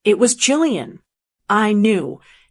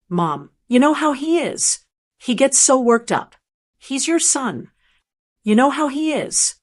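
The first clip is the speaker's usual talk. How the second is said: pleading; 3 semitones higher than usual. Acted. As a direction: beg her mother to understand. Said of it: "her voice was pleading".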